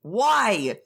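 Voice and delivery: high, sharp cut-in, then falling; angry outburst. Acted. Brother shoving the one who holds him back, angry. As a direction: cut him off in acted anger. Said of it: "He's just mad as fuck".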